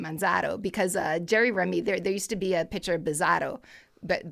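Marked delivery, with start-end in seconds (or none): 0.0-0.6 Manzardo in a Boston accent, r dropped: Manzahdo. Shown as a demonstration. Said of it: "I keep wanting to say that with a Boston accent". 3.0-3.6 put-on Jerry Remy Boston accent. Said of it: "whenever Remy announced him".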